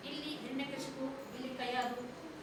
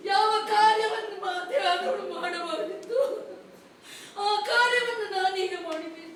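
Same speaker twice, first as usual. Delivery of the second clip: bitter tearful accusation. Acted. Mother accuses king after poisoning.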